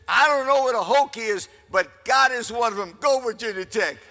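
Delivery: loud rally to the crowd; crowd address. Retold or imitated. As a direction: shout it out to the whole stadium. Speech to the crowd on stage.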